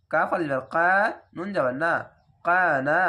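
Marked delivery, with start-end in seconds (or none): 2.4-3.0 "কানা" with both long aa vowels held a beat; one-alif stretch. Shown as a demonstration. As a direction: draw out each vowel of "কানা". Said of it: "এক আলিফ টেনে পড়বেন". ("কানা" টেনে পড়া)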